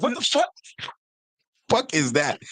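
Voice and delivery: very high, squeaky mock disbelief; imitated bafflement. Retelling a sister's reaction to aluminium, high-pitched bafflement. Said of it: "She's like".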